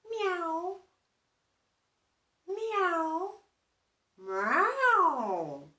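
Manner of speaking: high mewing meow, meow; high cat meows. Acted. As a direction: mew like a cat on a fence. Cat heard by the bear.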